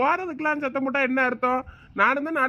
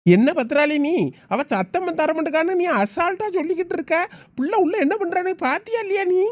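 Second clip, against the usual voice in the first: angry scolding; 6 semitones higher, 4 dB louder than usual. Acted. Father scolds wife about daughter.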